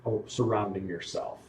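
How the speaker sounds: drawn-out opening, then measured phrases; suspenseful tabletop storyteller with pauses; game master narration. Acted. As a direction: reveal the result piece by piece. Game master gives check result.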